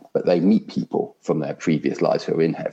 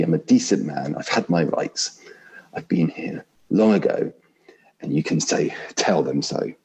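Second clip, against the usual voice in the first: indignant big ghost. Acted. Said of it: "I'll try vaguely to put on different voices".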